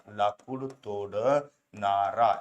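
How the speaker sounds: लाकूड तोडणारा stretched out slowly; slow syllable drill. Shown as a demonstration. (हळू, ताणून उच्चार)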